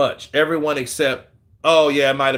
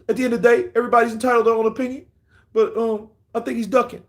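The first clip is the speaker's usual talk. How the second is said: lightly voiced boxer, fast, higher, rambling with ums; Floyd Mayweather impression; 5 semitones higher, faster than usual. Mimicking what he would say about Fury: fast, hesitant. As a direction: rattle it off quick with stuttering ums. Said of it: "this is what Floyd will do".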